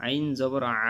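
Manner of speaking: "আ" squeezed from mid-throat; Arabic ain in "আ", made with throat pressure; pressed throat ain. Shown as a demonstration. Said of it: "গলার মধ্য থেকে চাপ দিয়ে".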